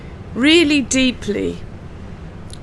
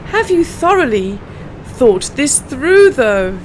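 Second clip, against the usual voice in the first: slow repeat, through drawn out; 2 semitones higher than usual. Shown as a demonstration. Teacher repeating the twister for learners, slow and clear. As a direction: repeat it slowly once more. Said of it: "let's try this tongue twister".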